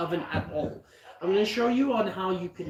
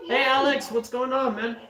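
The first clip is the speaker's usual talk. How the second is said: laughing; 7 semitones higher, 4 dB louder than usual. Real, not acted. Greets a viewer laughing.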